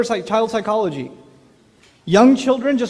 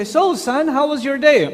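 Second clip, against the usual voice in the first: cheery dad; 6 semitones higher, 3 dB louder than usual. Retold or imitated. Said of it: "and you say".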